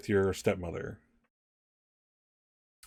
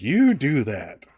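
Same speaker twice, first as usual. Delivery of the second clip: slow, emphatic, louder sign-off; curt dismissal; 3 semitones higher, 5 dB louder, much slower than usual. Acted. Stepmother dismissing Alice before storming out, scornful. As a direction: draw it out as a scornful challenge.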